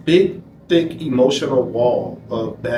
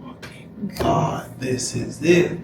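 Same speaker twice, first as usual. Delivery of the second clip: slow, breathless, hushed awe; awestruck; 5 dB quieter, much slower than usual. Retold or imitated. Stunned by the movie he has just put on, slow hushed awe. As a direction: let it fall out of you in stunned wonder.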